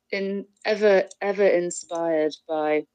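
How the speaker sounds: talking through a bite of chocolate; words round a mouthful; mouth full. Real, not acted. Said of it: "I've got my mouth full".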